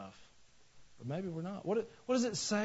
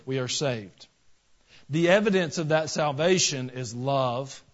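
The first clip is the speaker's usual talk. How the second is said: quoted reading; 4 dB louder than usual. Acted. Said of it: "He says this".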